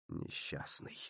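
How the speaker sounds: soft, breathless whisper; whispered pity. Acted. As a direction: murmur it under your breath with pity. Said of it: "пробормотал он".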